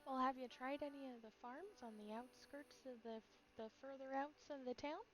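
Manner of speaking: a bad Midwestern farm lady accent. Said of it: "This is a terrible w-, Midwestern accent".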